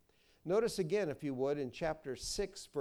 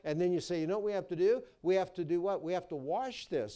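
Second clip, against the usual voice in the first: put-on teacher to kids; 3 semitones higher, 4 dB louder, faster than usual. Shown as a demonstration. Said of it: "you pull it out and you say".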